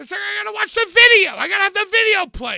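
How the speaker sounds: worked-up, agitated, very high, very loud ranting. Explaining why a task takes so long, upset and agitated. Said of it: "Why are you so upset right now?".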